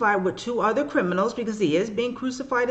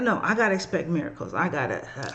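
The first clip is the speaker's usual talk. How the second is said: choked up; 5 semitones lower, 4 dB quieter, faster than usual. Real, not acted. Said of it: "sorry for getting emotional".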